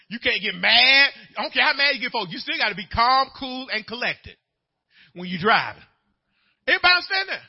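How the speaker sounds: ordinary talk, nothing marked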